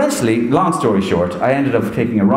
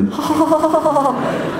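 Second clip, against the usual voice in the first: high, long put-on cackle; mimicked rapid ha-ha laugh; imitated Roy Keane laugh. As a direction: fake laugh, pitched way up. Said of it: "sounded like we were both laughing".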